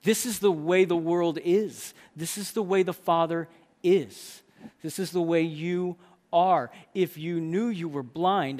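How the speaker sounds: loud, measured declaration; proclamation. Acted. Preacher declaring how the Father is, firm loud proclamation. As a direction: declare it slowly and firmly.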